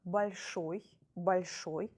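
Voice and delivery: большой with the ой stressed; stressed ending ой. Shown as a demonstration. Teacher showing students the stressed ой. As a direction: lean on ой in большой. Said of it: "this vowel is stressed".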